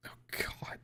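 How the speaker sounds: barely a breath of despair; whispered oh god. Acted. Anna collapsing into a whisper before Violet. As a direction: let it out as a broken whisper. Breaks down mid-confession.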